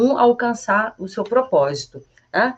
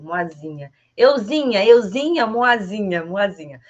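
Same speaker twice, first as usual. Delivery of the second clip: playful euzinha, moazinha; playful diminutive; 4 dB louder than usual. Shown as a demonstration. Teacher joking with a mixed diminutive. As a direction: tease the word. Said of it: "brinquei misturando".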